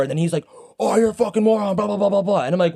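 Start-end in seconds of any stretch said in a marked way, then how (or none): 0.8-2.4 high, blustering imitation trailing into blahs; mock angry rant. Angry driver ranting at the parker, mock anger. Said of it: "he went from super angry".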